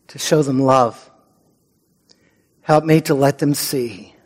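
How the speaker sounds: hushed, earnest prayer voice. Acted.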